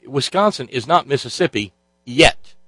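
yet leaned on at the end of the line; emphasis on yet. Retold or imitated. Telling Flavio his state isn't there yet, stressing yet. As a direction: land the weight on the word yet. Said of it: "Emphasis on the word yet".

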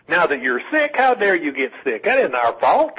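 mocking whine with swooping pitch; mock whining. Caller mimicking right-wingers scolding the sick, mock whining. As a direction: imitate an indignant whine, pitch jumping on key words. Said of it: "right-wingers absolutely just whining".

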